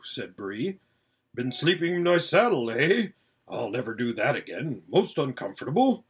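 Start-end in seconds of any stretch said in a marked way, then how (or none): 1.3-6.0 put-on gruff old horse. Voices Bree the horse.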